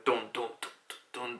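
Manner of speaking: spoken drum thumps; imitated drumbeat. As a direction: sound out a heartbeat drum with the voice. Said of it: "like the heartbeat".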